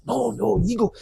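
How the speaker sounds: squeaky pleading "you go"; high mock pleading. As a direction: beg him to go first in a high whine. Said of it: "I goes".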